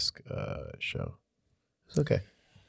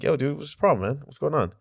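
raised, higher challenge to a stranger; confrontational call-out; 8 semitones higher, faster than usual. Retold or imitated. Confronting a guy in the restroom.

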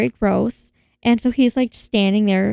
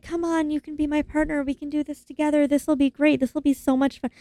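coaxing; 4 semitones higher, 3 dB quieter than usual. Retold or imitated. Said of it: "She's like".

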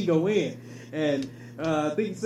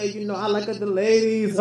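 Mexican accent impression. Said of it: "it's your impersonation".

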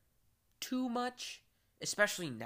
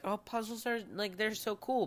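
put-on childish delight; 7 semitones higher than usual. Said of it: "I was like".

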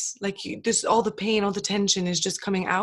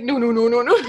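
laughing refusal; 6 dB louder than usual. Retold or imitated.

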